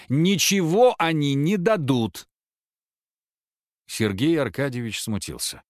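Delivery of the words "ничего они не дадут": loud, slow, higher yell; angry shout. A narrator's reading. Wife shouts at her disabled husband, loud and slow. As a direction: bark it out, slowly, to crush his hope. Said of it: "прервала его криком Маша".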